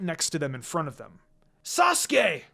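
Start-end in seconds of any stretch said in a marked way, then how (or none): 1.6-2.4 high startled call of his name; surprised cry. Acted. Hinata and Naruto see Sasuke crash down, startled. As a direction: react sharply as he lands. Seeing Sasuke land beside them.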